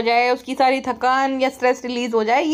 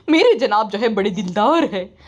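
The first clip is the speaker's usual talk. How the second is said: lightly voiced proud wife; 5 semitones lower than usual. Voicing the wife defending husband.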